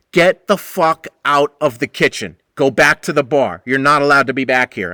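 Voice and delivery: firm loud order. Retold or imitated. Ordering her out again.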